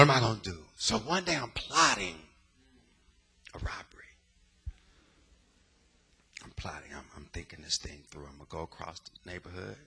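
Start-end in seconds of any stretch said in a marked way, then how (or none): 3.5-4.0 whispered secret. Retold or imitated. Confessing a planned crime. 6.4-9.8 voiceless whisper; whispered plotting. Retold or imitated. Plotting quietly to himself.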